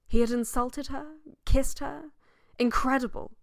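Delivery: high, rising disbelieving questions; incredulous. A narrator's reading. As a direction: ask it as if it were unthinkable. Narrator voices incredulous reaction to accusation.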